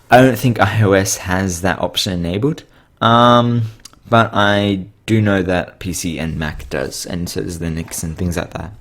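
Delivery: slightly strained, losing voice. Real, not acted. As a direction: talk with a tired, failing voice. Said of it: "I'm losing my voice a bit".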